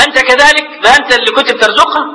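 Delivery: retold rebuke. Accusers scold the unconscious man over his sister's praise, imitated rebuke. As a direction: throw each praise back as a mock accusation. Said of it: "يقول هذا كان تقريعا له".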